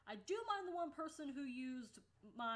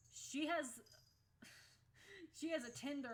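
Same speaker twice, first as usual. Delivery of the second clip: higher, louder teasing sing-song with laughter; sibling outing the speaker, laughing; tattling sibling; 4 semitones higher, 3 dB louder than usual. Retold or imitated. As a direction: mimic a kid snitching gleefully.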